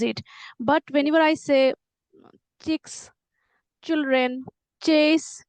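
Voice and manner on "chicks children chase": put-on "chicks, children, chase" said as separate careful words; each of "chicks", "children", "chase" set apart, opening consonant deliberately formed; deliberate ch sound. Shown as a demonstration. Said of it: "now I am deliver-, deliberately doing".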